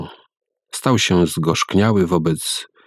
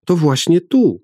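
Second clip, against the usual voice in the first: put-on child insisting; 11 semitones higher than usual. A narrator's reading.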